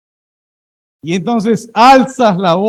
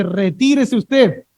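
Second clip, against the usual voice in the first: mild mock anger; 2 semitones higher, much slower than usual. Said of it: "Esta señora enojada le dice".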